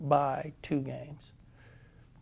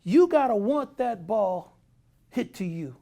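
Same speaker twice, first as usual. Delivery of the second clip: high, loud coaching rant; raised manager lecture; 5 semitones higher, 5 dB louder than usual. Retold or imitated. Manager lecturing Saxy on fielding, raised and high. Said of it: "he says".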